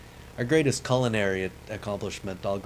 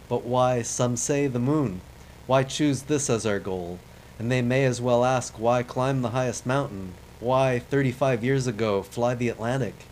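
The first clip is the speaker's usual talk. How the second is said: louder, lightly voiced Kennedy with no real accent; Kennedy speech; 3 semitones higher, 4 dB louder than usual. Gamer quoting the moon speech, a hint of Kennedy oratory. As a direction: declaim it like a mock presidential orator. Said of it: "I wish I could do a good accent for this guy".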